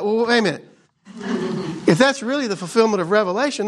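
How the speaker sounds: high, fast wait-a-minute objection; exasperated retort. Retold or imitated. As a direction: push back on people's logic, impatient. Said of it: "I'm like".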